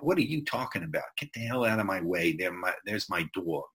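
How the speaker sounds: put-on fast, light New York accent; a quick, pushy New York accent, lightly done; New Yorker. Teacher imitating a New Yorker's fast speech, light New York accent. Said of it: "the New Yorker's gonna talk like this".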